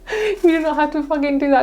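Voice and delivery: said high through a laugh; laughing emphasis. Real, not acted. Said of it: "I don't know why I said it like that".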